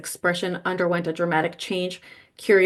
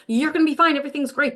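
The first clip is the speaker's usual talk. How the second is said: mock reassuring; 6 semitones higher, faster than usual. Mocking cultural denial.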